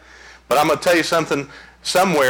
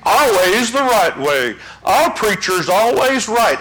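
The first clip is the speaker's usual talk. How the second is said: mock smugness; 6 semitones higher, slower than usual. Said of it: "We don't gotta say".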